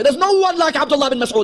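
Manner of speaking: mock praise. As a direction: parody the Sunni brothers' over-reverent praise. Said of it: "they'll say".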